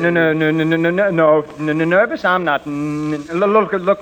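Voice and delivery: stuttering, tongue-tied nerves in front of a woman; nervous stammer. Acted. Flustered man stammering to the flirting drug clerk. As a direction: trip over every word like a flustered shy man. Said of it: "Don't be so nervous".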